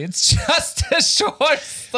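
slow, high Australian drawl; laconic outback drawl. Retold or imitated. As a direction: stretch it out like an outback bloke. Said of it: "der Jacob hat mir vor der Folge gesagt".

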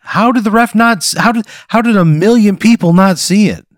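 incredulous protest. Real, not acted. Player protesting the blind referee, indignant. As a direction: demand an answer, baffled.

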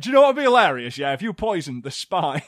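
cheeky Welsh lad voice; Welsh accent. Pretend. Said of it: "That's a fine Welsh accent".

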